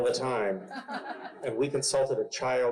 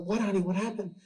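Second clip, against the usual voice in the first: higher, gentle parental questioning; concerned dad; 8 semitones higher, faster than usual. Retold or imitated. Dad asks crying daughter what's wrong, gentle concern. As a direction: act out a dad soothing his child.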